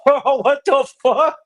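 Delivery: laughing through the words, slowed right down; slow, amused "what the fuck"; laughing disbelief. Real, not acted. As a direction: crack up mid-line at the news. Learns dad took Xanax.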